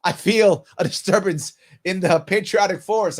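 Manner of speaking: hammed-up Jedi-like veteran sensing a disturbance; lightly voiced mocking of an offended veteran. Host mocking veterans offended by a protest, hammed-up. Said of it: "every veteran, all of a sudden".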